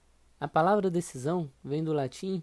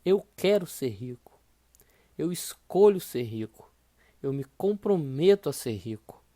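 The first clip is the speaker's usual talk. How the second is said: louder, steady affirmations; firm affirmation; 2 semitones lower, 6 dB louder than usual. Shown as a demonstration. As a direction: recite each vow firmly. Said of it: "Repita essas três frases pra você".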